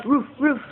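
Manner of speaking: playful imitated woof-woof; two short pretend dog barks. Mother plays dog for her toddler, playful barking.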